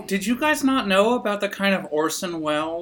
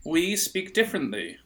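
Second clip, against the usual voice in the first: put-on posh British accent. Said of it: "here in Britannia".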